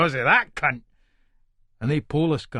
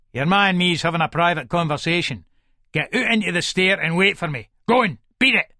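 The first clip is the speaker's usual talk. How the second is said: stern order. Acted. Father orders sons out.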